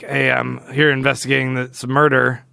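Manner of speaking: a hint of a drawling movie oddball; underplayed oddball impression; Sling Blade. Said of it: "I feel like he talks like Sling Blade".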